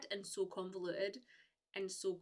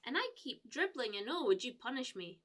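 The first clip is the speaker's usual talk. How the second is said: lightly voiced whiny viewer, pitched higher; a hint of a simpering viewer; mocking a creepy viewer; 4 semitones higher than usual. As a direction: send up a pervy chat message. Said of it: "somebody was like".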